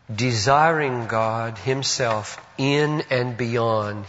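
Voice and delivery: "desiring" drawn out slowly and weighted; slow phrase leaning on "desiring"; stress on desiring. Real, not acted. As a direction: underline "desiring" with the voice, slow and deliberate. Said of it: "Underline the word desiring".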